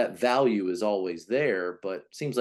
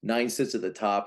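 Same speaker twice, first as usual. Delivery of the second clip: usual speaking voice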